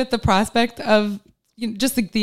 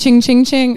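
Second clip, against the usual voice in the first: money noise; 2 semitones higher than usual. Pretend. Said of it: "I don't know what that was".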